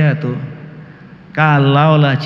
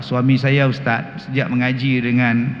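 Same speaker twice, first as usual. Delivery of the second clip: imitated wife. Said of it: "isteri kata apa".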